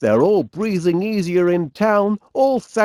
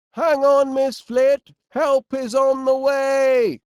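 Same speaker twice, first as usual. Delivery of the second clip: raised, slowed call from a distance; higher, slowed heroic call; 5 semitones higher than usual. Acted. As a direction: shout reassurance across to someone stranded. Calling out to trapped Miss Flit.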